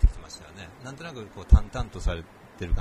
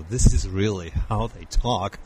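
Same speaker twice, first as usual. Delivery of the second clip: American way of talking; 5 dB louder, much slower than usual. Shown as a demonstration. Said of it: "アメリカ人って本当にこんな感じで喋りますからね".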